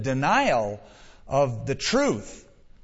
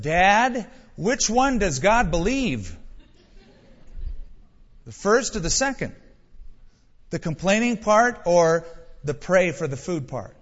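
put-on little girl; 3 semitones higher than usual. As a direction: press Dad with a child's innocence. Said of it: "Then the little girl said".

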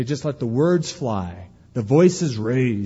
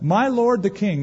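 high, reverent address to the king; bow your voice to him with respect; respectful; 6 semitones higher than usual. Shown as a demonstration. David honoring the king he fled. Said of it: "not, "Hey, you dirty dog".

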